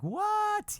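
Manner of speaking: squeaky high shocked what; stunned what. Retold or imitated. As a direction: yelp it in disbelief. Shocked by the offer.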